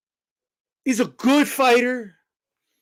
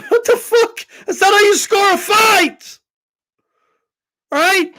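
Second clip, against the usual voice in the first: laughing outrage; 10 semitones higher, 3 dB louder than usual. Real, not acted.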